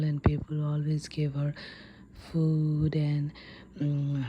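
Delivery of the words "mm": plain reading voice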